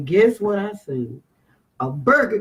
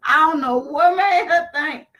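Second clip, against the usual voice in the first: high, strained, half-crying complaint; a pitched-up wail of disbelief; panicked retelling; 5 semitones higher than usual. Retold or imitated. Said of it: "terrified on the ATV retelling".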